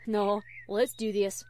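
put-on slow, firm country-girl voice; Applejack. A narrator's reading. Applejack assuring Fluttershy she is ready, firm. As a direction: reassure a friend, slow and sure. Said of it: "assured Applejack".

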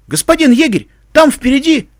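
urgent warning. Acted. Soldier warns the ranger of danger ahead, urgent. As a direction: call out a warning to your commander.

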